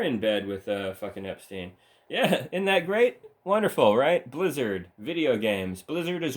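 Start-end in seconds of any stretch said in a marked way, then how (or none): 2.1-4.3 sarcastic. Real, not acted. Sarcastic praise of Epstein link.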